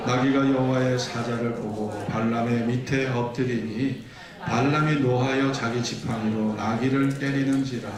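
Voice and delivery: measured, even read-aloud cadence; scripture reading. Acted. Preacher reads donkey passage with congregation, measured scripture reading. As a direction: lead the congregation steadily through the verses.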